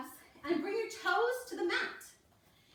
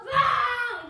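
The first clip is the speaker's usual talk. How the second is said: excited wow; 10 semitones higher, 10 dB louder than usual. Real, not acted. Praising kids after song.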